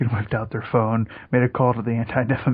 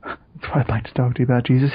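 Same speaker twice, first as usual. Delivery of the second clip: impression of friend. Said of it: "he's doing the voice again so soon".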